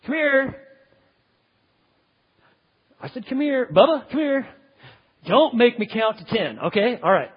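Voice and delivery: imitating an exasperated parent; nagging parent. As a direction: call the child again and again. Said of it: "the parent tells the child".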